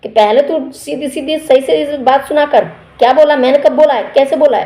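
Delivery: hammed-up quarrel retold; mock confrontation. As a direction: contestant throwing her words back at her, mocking. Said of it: "बोल दिया शहबाज ने कि".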